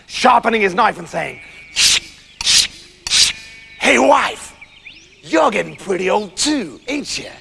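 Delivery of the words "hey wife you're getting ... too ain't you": put-on American farmer; sly American threat; drawling menace in an American accent; dangerous American accent. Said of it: "sound all dangerous and American".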